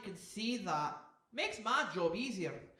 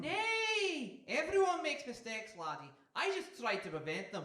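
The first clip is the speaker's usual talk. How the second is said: seagull voice. Acted. Seagull character voice.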